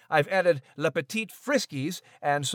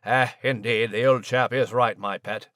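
posh British gent; 8 semitones lower than usual. Acted. British mouse character voice.

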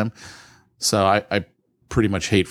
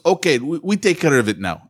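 a hint of a botched Indian accent, higher-pitched; bad Indian accent; 4 semitones higher than usual. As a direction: imitate an Indian call-center agent, unconvincingly. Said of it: "with his Indian accent".

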